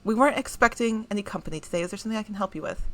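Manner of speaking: lightly voiced nurse, smiling; friendly receptionist, quick and light; smile in her voice. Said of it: "there's a small smile in her voice".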